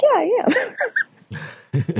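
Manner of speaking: high, slow, laughing "yeah, I am"; laughing insistence. Retold or imitated. Answering doubters who don't believe she's Thai, laughing and insistent.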